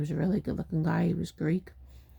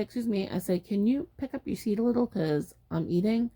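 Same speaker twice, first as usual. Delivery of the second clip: courteous retold request; nice polite request; 3 semitones higher than usual. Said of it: "I was nice".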